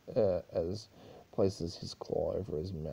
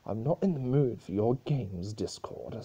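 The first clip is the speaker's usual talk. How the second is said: a mild, spat-out retort, a touch louder; 3 semitones higher, 5 dB louder than usual. Acted. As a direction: snap the name back with contempt. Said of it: "spat Celestia".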